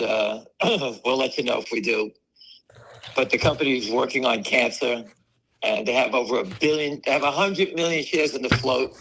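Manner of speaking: normal talking voice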